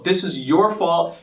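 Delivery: slow, with "your" leaned on hard; "your" pressed down slowly and firmly; stress on your, slow. Shown as a demonstration. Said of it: "emphasizing the word you".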